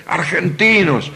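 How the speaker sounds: high-pitched imitated jeer; retold street shout. Chilean fans shouting at visiting Argentines, imitated high yell. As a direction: call it out like a hostile fan in the street. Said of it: "nos gritaron por la calle".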